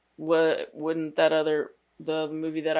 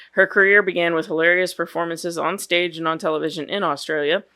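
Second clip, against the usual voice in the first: scripted podcast bio read with an emphatic opening; profile read-aloud; 6 dB louder than usual. Real, not acted. Co-host reads the actress's profile to the others, read-aloud delivery. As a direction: read a biography aloud, evenly paced.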